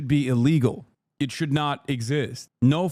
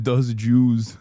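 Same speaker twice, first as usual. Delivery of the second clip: mock quote; 3 semitones lower, 4 dB louder than usual. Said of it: "He said".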